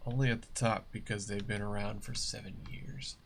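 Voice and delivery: soft unvoiced whisper; whispered aside. Real, not acted. Muttering to viewers about veteran streamers, whispered. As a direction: drop to a whisper for the jab.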